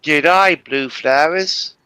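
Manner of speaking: put-on a light, teasing Australian accent, slowing on blue flowers; Australian accent, mocking the other player. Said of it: "You sounded like an Australian person".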